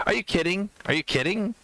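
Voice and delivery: high-pitched, disbelieving question; incredulous. Retold or imitated. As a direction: imitate a wife who can't believe it. Acting out wife's shocked reply.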